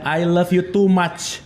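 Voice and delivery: very slow, weighted on "too"; "I love you too much" stretched out slowly; clingy slow confession. Shown as a demonstration. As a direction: drag out each word like a smothering lover. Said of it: "Ini namanya".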